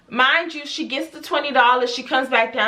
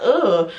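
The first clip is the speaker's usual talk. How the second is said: mimicked annoying drawl; 4 semitones lower than usual. Shown as a demonstration. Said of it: "I hate that".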